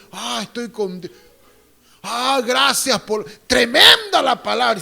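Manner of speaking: put-on voice of a fawning member; lightly voiced hypocrite; mock gushing hypocrite. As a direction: imitate a fake praise of the sermon. Mocking hypocrite congregant.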